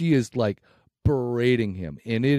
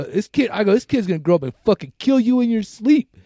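retold angry warning; 6 semitones higher, 4 dB louder than usual.

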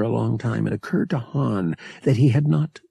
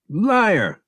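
angry cry; 9 semitones higher, 4 dB louder than usual. Acted. Angry outburst.

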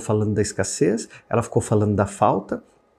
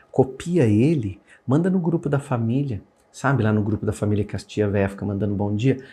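ordinary talk, nothing marked

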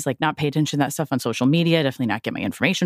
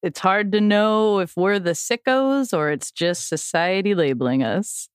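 catchphrase; 2 semitones higher, slower than usual. Acted. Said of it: "what do stoner chicks always say".

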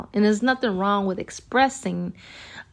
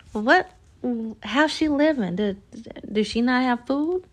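scandalized, higher incredulous voice; judgy disbelief; 4 semitones higher than usual. Retold or imitated. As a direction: question how she lives in disbelief. Host voicing judgmental reaction.

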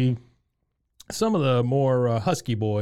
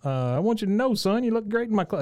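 imitating the store owner's voice; 9 semitones higher than usual. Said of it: "the guy who does Bill's voice".

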